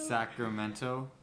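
Sacramento slowly with a full T; T pronounced. Shown as a demonstration. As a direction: draw out Sacramento, sounding the T in "-to". Slowly demonstrating the word's T.

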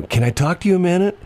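high bright caller voice; lightly voiced phone caller; robocall voice. Imitating robocall woman.

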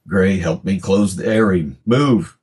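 rising to a sharp command on move; father barking at son in danger; urgent father. Acted. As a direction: hurry the boy along. Father urges son in attack.

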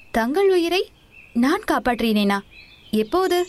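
can't believe what he's hearing; astonished. Acted. Young man questions the monk's strange claim, astonished.

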